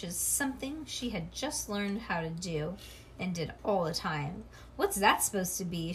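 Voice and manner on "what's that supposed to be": snippy. Acted. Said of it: "in a snippy grown-up way".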